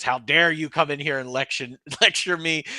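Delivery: mildly indignant quote of a president; indignant rebuke. Acted. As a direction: lightly act out an affronted scolding.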